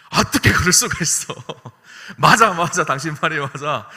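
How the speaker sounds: loud, high indignant sympathy; eager agreement. Acted. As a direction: take her side with gusto. Husband backing his wife.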